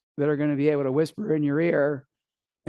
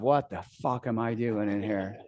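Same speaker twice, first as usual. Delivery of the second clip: panicked inner voice; 6 semitones lower, 6 dB quieter than usual. Retold or imitated. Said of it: "I'm telling myself".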